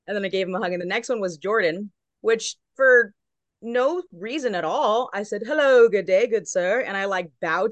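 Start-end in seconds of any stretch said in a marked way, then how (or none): 5.5-6.8 put-on half British accent. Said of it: "gave a half accent and bowed".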